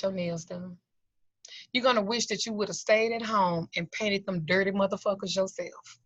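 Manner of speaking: soft, controlled menace; understated warning, never raising the voice; quiet threat. Retold or imitated. Retold threat to the woman.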